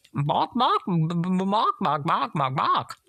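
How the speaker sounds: high happy squawk; gleeful squawk. Acted. The chicken squawking happily, high. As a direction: squawk it with glee. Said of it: "brimful of glee".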